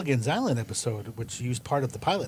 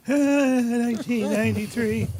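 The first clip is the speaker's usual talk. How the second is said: higher, louder laugh-through; 10 semitones higher, 5 dB louder, slower than usual. Real, not acted. Guest laughs out the founding year.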